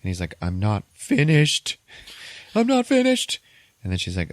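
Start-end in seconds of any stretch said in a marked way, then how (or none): 0.4-3.4 drawn-out yell climbing very high; hammed-up high, loud outburst; mock meltdown scream. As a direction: scream it like an obsessive denied. Retold meltdown over unfinished work.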